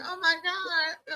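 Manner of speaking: put-on slow, swooning gasp of a starstruck girl; mock swoon over his accent; swooning fan. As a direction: drag out the awe like a dazzled fan. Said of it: "They'd be like".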